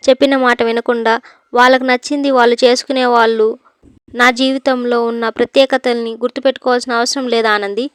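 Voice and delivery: loud, cold rebuke of a daughter-in-law; mother-in-law loudly refusing the gift; stern scolding. Acted. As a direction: raise the voice and shut her down. Sunanda scolding Anandi, refusing gift.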